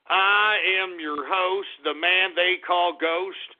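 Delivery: slow, drawn-out announcer voice; milk each word like a show opener; dramatic slow station ID; radio host intro. Acted.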